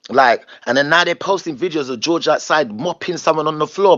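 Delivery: high, heated complaining; indignant, fed up; vexed rant. Real, not acted. Vexed rant about being excluded.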